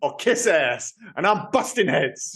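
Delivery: lightly imitated action-villain line; Dolph Lundgren. Co-host quoting the nonsensical line to a friend, a hint of impression. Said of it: "delivers it in that uniquely Dolph Lundgren way".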